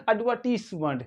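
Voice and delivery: एडवर्टीजमेंट as "ud-VUR-tiss-munt" with silent R; soft S. Shown as a demonstration. Teacher models British word, soft S and no R. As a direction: hiss a soft S, not Z, in एडवर्टीजमेंट. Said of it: "क्या पढ़ेंगे".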